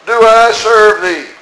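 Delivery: slow, high, pompous protest; elder brother pleading his own record, slow and high; self-righteous elder brother. Acted. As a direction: drag it out like a wronged good son. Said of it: "listen to what he said".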